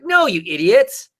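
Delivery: high-pitched exasperated rebuke; exasperated retort. Retold or imitated. Fan correcting people on the internet, exasperated. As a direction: scold them in a high, exasperated voice. Rebutting internet fans, then apologizes.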